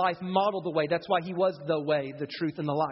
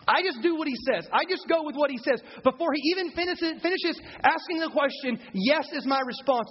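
eager; 6 semitones higher than usual. Real, not acted. Excited testimony of obedience.

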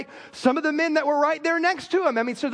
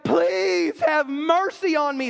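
put-on slow, drawn-out kid begging a parent; a busted kid asking for mercy; pleading child; 2 semitones higher, slower than usual. Busted kid pleading with a parent, slow and begging. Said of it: "as a kid ... you're like".

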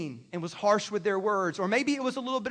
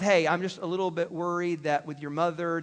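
gentle I statement; 4 semitones lower than usual. Shown as a demonstration. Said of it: "we start off with".

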